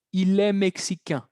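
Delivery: "mexicain" ending in a nasal vowel, no N sounded; nasal -ain ending. Shown as a demonstration. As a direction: model "mexicain" with the French nasal "un" sound at the end. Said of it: "ahí era A I N, que era un".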